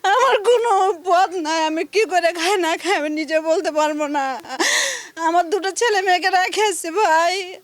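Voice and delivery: tearful, voice breaking with grief; crying as she pleads her hardship; hit hard crying out. Real, not acted. Woman tells of losing job.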